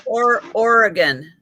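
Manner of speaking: Oregon said as OR-uh-gun, last syllable reduced; Oregon pronunciation. Shown as a demonstration. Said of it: "is that how I'm supposed to say it".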